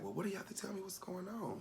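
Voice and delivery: soft, high, whispery questions; weak whisper. Retold or imitated. Ailing grandmother coaxing grandchild to talk, whispering. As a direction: coax gently in a frail hush. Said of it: "she was whispering".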